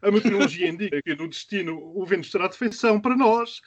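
lightly voiced pilot on the intercom; mock cabin announcement from the captain; airline captain announcement. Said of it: "imaginar o comunicado feito pela tap".

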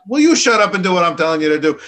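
loud, fast, exasperated outburst; angry God. Retold or imitated. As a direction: snap it out as a fed-up God ordering him. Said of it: "God finally gets kinda mad at him and says".

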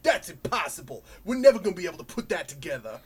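put-on thick New York accent, quick and blunt; brash Brooklyn-style New York accent. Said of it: "they have really thick New York accents".

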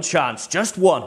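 slow, drawn out "chance, just one" with weight on "one"; emphasis on just one. Retold or imitated. Wallace to his troops, stressing "just one" slowly. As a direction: lean hard on "just one" and stretch it. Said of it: "he does emphasize that".

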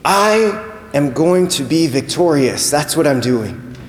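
slow, weighty announcement; solemn declaration. Acted. Jesus answers what he is doing entering the city, solemn. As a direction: spell out each phrase slowly and deliberately.

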